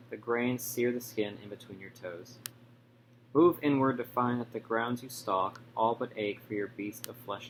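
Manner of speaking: measured poetry reading, falling away at each line's end; poem recitation. Real, not acted. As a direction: read your sonnet aloud in short, paused phrases. Reads own sonnet aloud.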